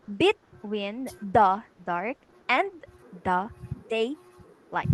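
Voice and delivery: slow reading, punching every second syllable of "between the dark and the daylight"; measured metrical reading, strong beats on "tween", "dark" and "day"; stressed syllables emphasized. Shown as a demonstration. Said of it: "you have to make emphasis".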